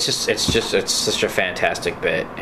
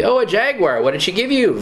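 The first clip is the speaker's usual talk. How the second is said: high, chirpy ventriloquist voice; squeaky ventriloquist voice; 11 semitones higher than usual. Retold or imitated. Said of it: "Where he's, like, a ventriloquist dummy".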